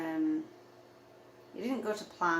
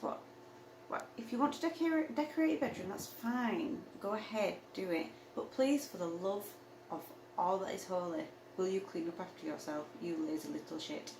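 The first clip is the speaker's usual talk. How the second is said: exasperated telling-off. Retold or imitated. Telling Christopher to clean up after himself, exasperated.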